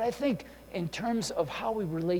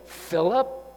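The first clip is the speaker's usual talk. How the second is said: exasperated; 3 semitones higher, 4 dB louder than usual. Retold or imitated. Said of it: "He didn't say".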